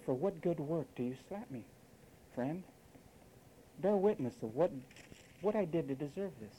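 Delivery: quiet, even, unruffled voice; calm, unemotional. Retold or imitated. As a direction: answer the slap softly and calmly. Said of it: "Man, that's unemotional".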